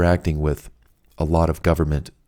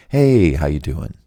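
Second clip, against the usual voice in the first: slow, low, drawn-out greeting; soothing vibe; 4 semitones lower, 3 dB louder than usual. Acted. Caller charming the agent on the line, slow and soothing. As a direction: stretch the hey and settle low. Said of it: "send out that vibe".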